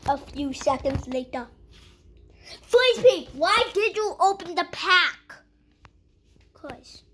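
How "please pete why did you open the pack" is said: loud, higher exasperated plea; exasperated pleading. Pretend. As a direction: beg with rising frustration. Upset at opened snack pack.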